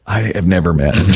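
blurted out through a real laugh; laughing disbelief. Real, not acted. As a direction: laugh while protesting you never met him. Retelling meeting a stranger.

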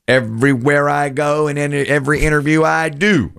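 high, insistent mock exasperation; emphatic quote. Quoting the screenwriter on his interviews, high and emphatic. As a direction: push it up high and hold it there. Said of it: "He says emphatically".

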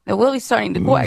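imitated W-for-R speech, "really" becoming "Willie"; retold lisping-style impediment, R turned to W. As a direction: mimic Elmer Fudd-style Rs on "Willie's" and "quack". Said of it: "she has a speech impediment".

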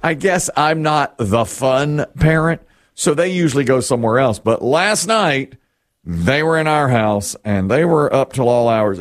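ordinary delivery

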